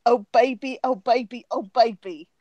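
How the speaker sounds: lightly voiced cartoon imitation; a hint of a cartoon voice; Rocko's Modern Life. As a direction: repeat it as a cartoon catchphrase. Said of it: "Rocco and Marco's Modern Life going like".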